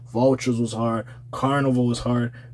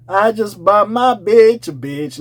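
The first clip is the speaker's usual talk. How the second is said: mock quote; 5 semitones higher, slower than usual.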